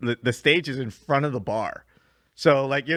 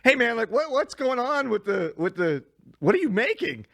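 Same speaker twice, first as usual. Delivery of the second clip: calling out to bartender; 8 semitones higher than usual. Retold or imitated. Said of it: "he yells back at me".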